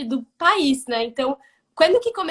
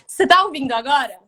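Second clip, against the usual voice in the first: louder for a bad line; speaking up; 5 dB louder, faster than usual. Real, not acted. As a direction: raise the voice for a bad connection. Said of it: "eu vou tentar falar alto".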